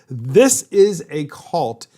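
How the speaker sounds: slow, deliberate "this is a cult" with a hard stress on "this"; emphatic condemnation. Real, not acted. Host emphatically repeats his condemnation.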